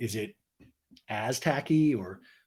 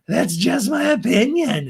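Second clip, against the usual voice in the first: mock defiant shout; 7 semitones higher, 7 dB louder, slower than usual. Raquel defends herself in fight.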